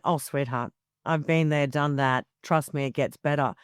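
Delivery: retold reassurance. Liz comforting the sweating guest, lightly voiced low reassurance. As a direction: soothe a flustered friend, gently and low.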